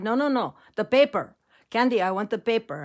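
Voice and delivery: insistent grandfather, lightly imitated Mexican accent; Grandpa Joe. Grandpa corrects granddaughter's guess, light Mexican accent. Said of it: "did have a very heavy accent".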